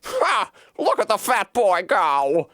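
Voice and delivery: high mocking bark of a laugh; old woman jeering as the boy runs. A narrator's reading. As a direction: jeer at the fleeing boy. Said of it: "barked out a single laugh".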